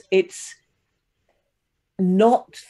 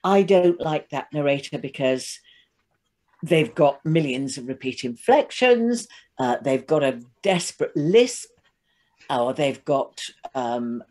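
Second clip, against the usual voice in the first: grating character voice. Acted. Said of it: "That was a good character voice".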